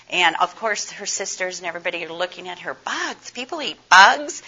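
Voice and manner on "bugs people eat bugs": put-on surprised kids. Sisters react to eating bugs.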